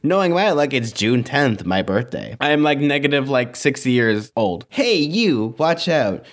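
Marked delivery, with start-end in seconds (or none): 4.7-6.2 called warning. Acted. Warning shouted in the story.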